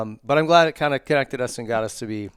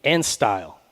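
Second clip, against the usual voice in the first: ad read. Acted. Host reads sponsor spots.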